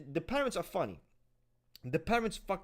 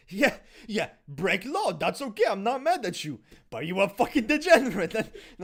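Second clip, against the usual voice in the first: laughing tease; 5 semitones higher, 10 dB louder than usual. Real, not acted. Teasing the cohost, laughing.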